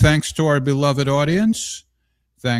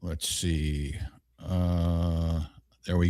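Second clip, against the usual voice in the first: whispered to himself; breathy aside under the breath; 8 semitones lower, 10 dB quieter, much slower than usual. Real, not acted. Muttering to himself off-mic.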